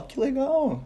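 put-on high, delighted child voice; voz de criança. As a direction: squeal it like an amazed kid. Child's view voiced in story. (voz de criança encantada)

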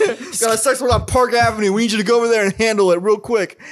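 half-laughing send-up of a police call; mock police dispatcher. Dispatcher sending Don to a suspect, mock urgent police voice.

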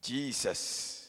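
a fuller call of the name Jesus. Shown as a demonstration. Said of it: "Your saying is not convincing".

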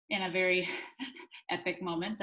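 laughing nervously mid-sentence; a nervous giggle breaking in. Real, not acted. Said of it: "That's my nervous laugh coming out".

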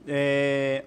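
talking with a mouth full of snacks; chewing while talking, words round food. Real, not acted. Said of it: "eu falando de boca cheia".

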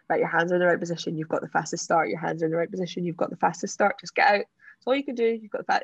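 self pep talk. Retold or imitated. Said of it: "saying to myself".

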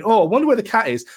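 a hammed-up owner hunting for a pet; mock sing-song Megan calling. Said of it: "Then starts going".

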